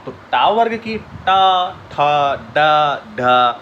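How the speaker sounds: टा, ठा, डा, ढा drawn out very slowly; stretched letters. Shown as a demonstration. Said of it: "उसके बाद टू". (वर्णों को खींचकर बोलना)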